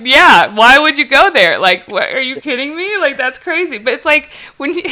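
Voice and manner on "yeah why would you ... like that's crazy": mock agreement. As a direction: ham up siding with the friend. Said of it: "I'm like".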